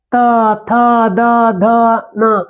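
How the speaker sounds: त थ द ध न very slow, tongue on the back of the teeth; dental sounds demo. Shown as a demonstration. Teacher shows pupils the dental letters, slow and clear. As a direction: draw out त थ द ध न. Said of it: "दांत को पीछे से touch करेगा".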